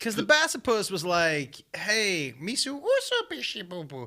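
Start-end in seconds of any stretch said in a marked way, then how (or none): 1.7-4.1 pitch swinging widely up and down. Imitating the Gungan from the films: Jar Jar Binks Gungan voice. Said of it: "that was good Gungan right there".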